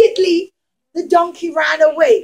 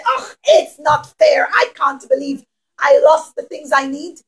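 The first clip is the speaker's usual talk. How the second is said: whiny complaint. Acted. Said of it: "stomp their feet and say".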